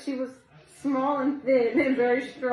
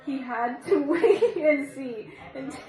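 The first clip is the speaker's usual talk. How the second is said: giggling. Real, not acted. Reader giggles through a story.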